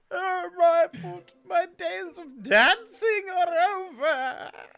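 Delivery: loud, full belly sobbing. Voicing a character wailing over a lost foot: full belly crying. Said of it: "it's like full on belly cry".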